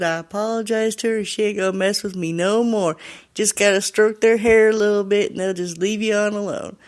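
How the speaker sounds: light Southern voice, telling his friends; Southern accent. Retold or imitated. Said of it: "he has a really deep Southern accent".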